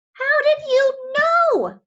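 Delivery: high, loud, slow amazed cry. Acted. Harriet answering the orca, crying out. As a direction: cry it out in wonder. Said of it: "cried Harriet".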